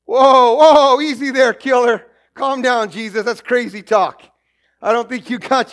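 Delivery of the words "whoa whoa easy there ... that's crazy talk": loud, startled whoa, whoa; mock alarmed crowd. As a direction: rein him in like a wild horse, mock alarm. Crowd reacting to Jesus's words.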